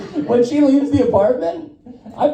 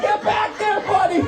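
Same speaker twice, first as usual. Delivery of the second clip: hushing the dog; 8 semitones higher than usual. Retold or imitated. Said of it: "I'm like".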